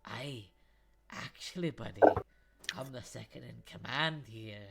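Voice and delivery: dwarf calmly pulling rank on the guard; smug dwarf. Acted. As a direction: savour the pulled rank. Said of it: "a bearded smile on Torm's face as he said".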